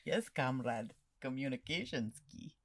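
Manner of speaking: put-on joking Russian accent. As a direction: say it like a Russian comrade. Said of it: "that's why I did the Russian accent".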